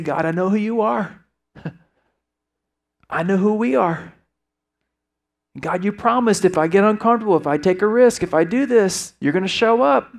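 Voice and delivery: fervent preacher voicing a believer's resolve; impassioned declaration. Urges audience to declare this to God.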